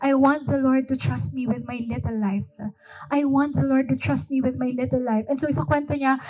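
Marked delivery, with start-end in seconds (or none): 0.0-5.2 beautiful, heartfelt plea. Retold or imitated. Heidi asking the Lord to trust her, retold gently. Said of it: "she said this so beautifully".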